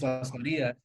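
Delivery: Las Marias with tapped R, stressed ma-REE-a; correct Spanish pronunciation. Shown as a demonstration. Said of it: "the correct way is".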